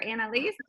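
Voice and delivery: Annalise ending in "lees", rising; questioning name pronunciation. Shown as a demonstration. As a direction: ask Annalise as Anna-lees, with "ee". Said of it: "Not sure".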